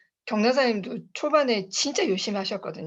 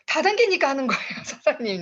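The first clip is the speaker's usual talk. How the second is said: cheeky retort; 3 semitones higher than usual. Retold or imitated. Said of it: "내가 그랬거든요".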